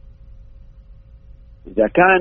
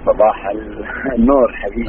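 car speakerphone. Real, not acted. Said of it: "الصوت مو بواضح".

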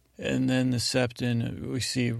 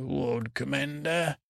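slow, weighty, lightly voiced Stannis; a hint of stern Stannis, said slowly; Stannis's loaded look; 3 semitones higher, slower than usual. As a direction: drag out the title with a silent stare behind it. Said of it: "with his eyes like that".

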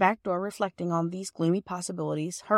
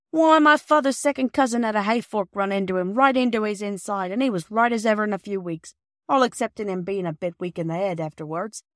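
louder, chatty working man's voice; kindly old porter; 3 semitones higher, 4 dB louder than usual. Acted. Perks cheering Bobby with a rambling family tale, loud. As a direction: spin the yarn to cheer her up.

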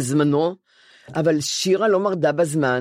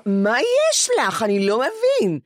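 psychiatrist voice; 3 semitones higher, slower than usual. Retold or imitated. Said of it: "הוא אומר".

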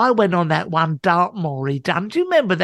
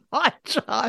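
echoes the phrase while laughing, much softer; 3 semitones higher, 6 dB quieter than usual. Real, not acted. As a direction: repeat his words, giggling. Listener echoes through laughter.

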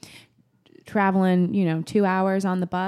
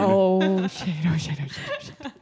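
laughing panic. Real, not acted. Startled laughing outburst.

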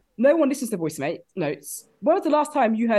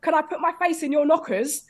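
put-on London accent; 3 semitones higher than usual. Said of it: "men from London".

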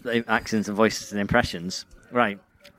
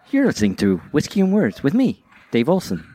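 lightly imitated podcast host intro, pitched up; Dave Olson impression; 3 semitones higher than usual. Shown as a demonstration. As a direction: mimic your co-host's show intro. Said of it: "I do an impression of you".

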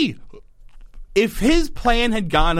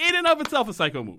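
fast, quieter read from notes; reading out own notes; 9 semitones higher, 4 dB quieter, faster than usual. Shown as a demonstration. Host quoting her own written note, read quickly and quieter. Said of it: "I wrote that down".

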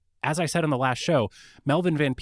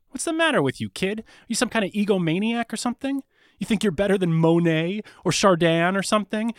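higher-pitched, mock-affronted scolding; indignant patron; 5 semitones higher, 3 dB louder, faster than usual. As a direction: tell off an upstart artist in put-on indignation. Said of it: "And the cat says".

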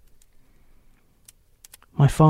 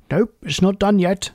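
tiger checking; 6 semitones higher than usual. A narrator's reading. Tiger checks another's chewing.

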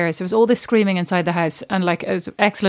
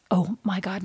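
zen; 6 dB quieter than usual. Retold or imitated. Zen mum hears of the mess, soft and calm. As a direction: play her unbothered, voice dropped. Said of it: "Kerry's, like, so zen".

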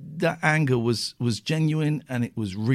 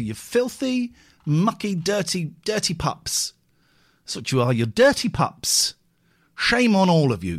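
mock scolding; 5 semitones higher than usual.

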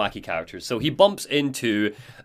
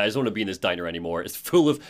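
very fast, low grumble; fed-up Alan; 5 semitones lower, much faster than usual. Acted. Alan done with the diner, quick low grumble. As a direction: rush it out low, wanting to leave. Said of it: "Like, he's like".

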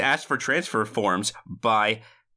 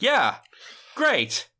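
high, abrupt mock barks; half-yelled bark; 9 semitones higher, much slower than usual. Student out of sorts with a hot woman, half-barking replies. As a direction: bark single words, imitating someone out of sorts. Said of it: "half yell barks everything he says".

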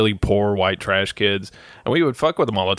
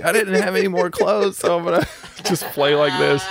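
put-on goofy kid voice; 7 semitones higher than usual. Kid in underwear explains himself.

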